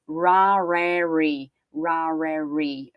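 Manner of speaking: "rarely" slow, r sounded from the throat; rasped English r. Shown as a demonstration. Teacher modelling "rarely" slowly for Brazilian students. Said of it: "que seria o nosso rasgado".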